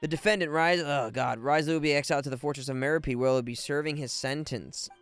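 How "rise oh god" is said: ordinary delivery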